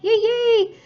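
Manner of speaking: high squealed yay yay; bright high cheer. Real, not acted. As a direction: celebrate like a cheerleader. Cheering an exam result.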